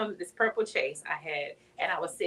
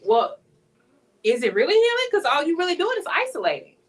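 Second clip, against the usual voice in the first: talking to herself; 6 semitones higher, 4 dB louder than usual. Real, not acted. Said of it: "Talking to me".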